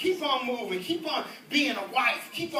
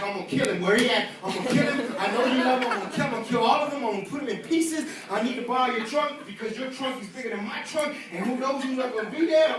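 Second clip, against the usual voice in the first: mock furious father, a bit louder; angry daddy; 4 dB louder, faster than usual. A father vowing revenge on the man, mock rage. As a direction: ham up the threat of revenge. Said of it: "daddies be like".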